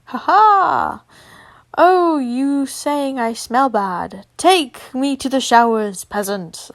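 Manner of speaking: playful laughing tease. Acted. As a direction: laugh through the teasing. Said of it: "I laugh".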